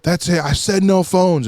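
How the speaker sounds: hammed-up strict teacher; mock angry teacher. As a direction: lay down the law. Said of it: "she was like".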